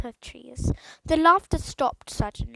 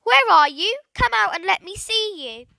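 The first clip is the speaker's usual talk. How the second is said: loud, higher call; shouting; 6 semitones higher, 5 dB louder than usual. A narrator's reading. Boy shouting for the hidden speaker, loud. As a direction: yell into the trees. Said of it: "He shouted again".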